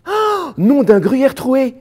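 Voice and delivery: high, loud, drawn-out cartoonish oath; comic alarm. Man exclaims to his guide that he lost his phone, comic alarm. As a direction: exclaim in exaggerated, high-pitched panic.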